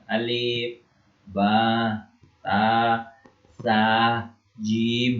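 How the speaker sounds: Arabic letters recited one by one, each held and separated; contoh pelafalan huruf. Shown as a demonstration. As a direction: sound out alif, ba, ta, sa, jim with pauses between. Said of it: "Bagaimana cara mengucapkan". (melafalkan huruf hijaiah satu per satu)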